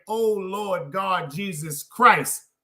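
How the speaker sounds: slow drawn-out mock wail; mock cry to God. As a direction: stretch it like a woman crying out. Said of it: "you're screaming out saying".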